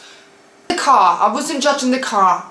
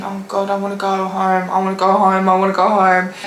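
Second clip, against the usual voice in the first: stressed; 3 semitones lower, faster than usual. Retold or imitated. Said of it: "In a stressed way".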